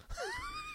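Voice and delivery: high squeal of laughter; squeaky laugh. Real, not acted. Co-host laughing during the Wagyu debate. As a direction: burst out in a squeak.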